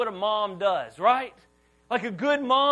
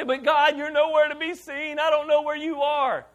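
higher-pitched complaint to God; mock plea; 5 semitones higher, 4 dB louder than usual. Believer complains to God in prayer, acted higher-pitched plea. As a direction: plead upward, acting it out.

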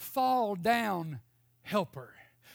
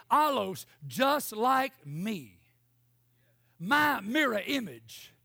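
full-force preaching; 3 semitones higher than usual. Acted. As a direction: preach it hard to the Auburn crowd. Preaching builds up again.

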